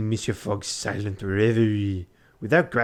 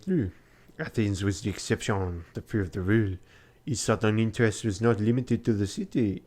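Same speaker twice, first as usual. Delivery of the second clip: steady storybook narration voice; story narration. Acted. Reading the game's story aloud to viewers, narrator voice. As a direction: read the journal like a novel. Reads Passepartout's narration in game.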